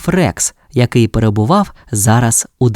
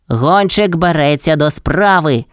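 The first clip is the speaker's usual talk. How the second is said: higher, lightly put-on pup voice; eager pup exclamation; 4 semitones higher than usual. A narrator's reading. Pup accepts Ryder's task, exclaiming eagerly. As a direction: announce it keenly, in character. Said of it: "вигукнуло щеня".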